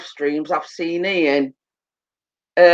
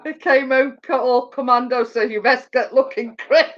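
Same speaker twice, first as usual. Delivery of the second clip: laughing till crying, higher pitched; 3 semitones higher than usual. Real, not acted. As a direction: speak through helpless laughter. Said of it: "Emma, stop making me laugh".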